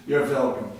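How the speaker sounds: "welcome" with a V for the W. Acted. Elderly man answers the husband's thanks, "welcome" with a V sound. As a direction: say "welcome" as "velcome". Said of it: "they saw this elderly man coming toward them".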